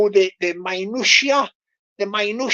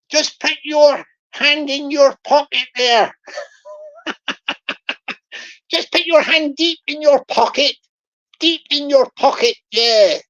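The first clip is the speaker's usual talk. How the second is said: Bristol scammer voice. Retold or imitated. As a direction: play the farmer-scammer milking his mark with a grin. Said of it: "I'll do the Bristol voice".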